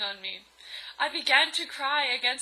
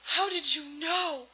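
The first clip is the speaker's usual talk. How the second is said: higher, drawn-out question; stretched-out astonishment; surprised; 4 semitones higher than usual. Acted. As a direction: ask it in mock amazement. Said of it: "I asked in surprise".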